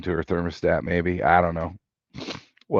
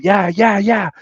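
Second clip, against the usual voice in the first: high whooping yeah, louder; 12 semitones higher, 4 dB louder than usual. Retold or imitated. Flying down the frontage road, high whooping. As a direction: cheer yourself on at full speed, much higher.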